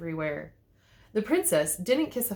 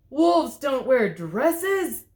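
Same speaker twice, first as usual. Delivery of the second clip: loud, higher, slow protest; indignant cry; 5 semitones higher, 7 dB louder, much slower than usual. A narrator's reading. The wolf protesting to the fairy godmother, loud and slow. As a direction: wail it out, offended. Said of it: "cried the wolf".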